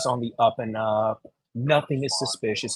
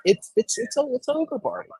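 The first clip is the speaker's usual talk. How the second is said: emphatic; 4 semitones higher, 3 dB quieter than usual. Retold or imitated. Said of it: "I'm the one that's like".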